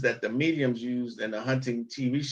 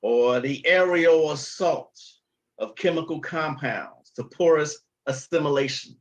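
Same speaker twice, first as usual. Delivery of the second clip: mock word salad. Shown as a demonstration. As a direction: parody a show-off using big words. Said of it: "who like to speak like this".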